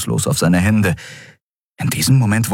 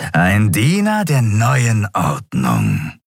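slow, drawn-out captive creature; lightly voiced, unhurried reptile fanatic; reptilian cultist; slower than usual. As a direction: answer slowly, as a servant of the cult. Captive Draxyl answers.

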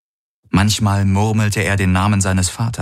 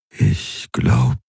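raw near-whisper; 4 semitones higher than usual. Acted. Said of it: "war seine Stimme rau, kaum mehr als ein Flüstern".

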